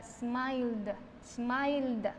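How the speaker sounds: smiled as "smail-d" with silent E; final da sound. Shown as a demonstration. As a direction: release smiled on a short voiced "da". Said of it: "va a sonar entonces como una da". (smiled dicho "smaild", con "da" final)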